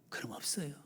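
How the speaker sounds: faint voiceless whisper. Real, not acted. Preacher to congregation, faint whisper. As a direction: barely breathe it. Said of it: "preacher whispers".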